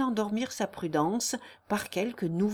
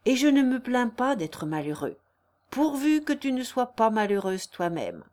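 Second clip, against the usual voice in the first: earnest lovelorn declaration, gently raised; ardent suitor; 3 dB louder than usual. Acted. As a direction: plead devotion with mild fervour. Narrator plays pleading suitor.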